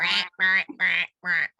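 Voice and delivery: squeaky quacking like a duck; squeaky rubber duck. Pretend. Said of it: "your duck impression".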